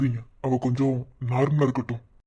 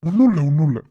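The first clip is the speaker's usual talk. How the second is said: urgent reassurance; 8 dB louder than usual. Acted. Calming a panicking girl.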